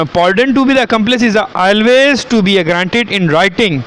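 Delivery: slow, deliberate reading of legal text; statute read-out. Acted. Lecturer reading the law to students, slow read-out. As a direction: read it out slowly, word by word.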